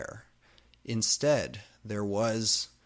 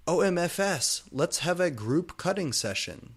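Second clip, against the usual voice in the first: eager; 8 semitones higher, 4 dB louder than usual. Acted. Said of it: "said Professor Trelawney".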